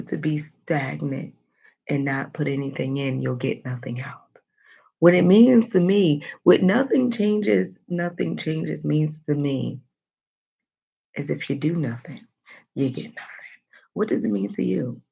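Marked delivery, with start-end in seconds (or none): 3.2-4.2 whisper. Real, not acted. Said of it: "explaining the quote". 12.8-13.5 whisper. Real, not acted. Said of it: "explaining the quote".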